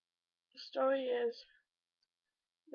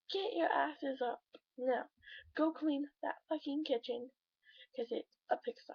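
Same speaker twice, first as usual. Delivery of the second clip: imitating dad yelling; 3 semitones higher than usual. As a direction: retell the father's bellowing order, half-hearted. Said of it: "go yell through the whole house".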